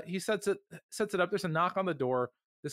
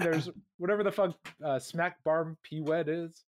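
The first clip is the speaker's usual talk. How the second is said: mock northern accent. Shown as a demonstration. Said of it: "variants of the British accent".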